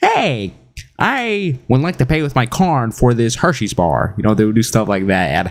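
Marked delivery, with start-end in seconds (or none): 0.0-4.1 goofy, silly, sing-song high-pitched voice. Recalling people ordering at a cash register in a funny voice. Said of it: "order in a funny voice like".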